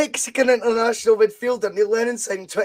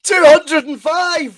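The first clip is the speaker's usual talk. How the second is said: louder, higher, slow and drawn out; excited announcement; 7 semitones higher, 7 dB louder, slower than usual. Real, not acted. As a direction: reveal the big score with a build. Announcing final score excitedly.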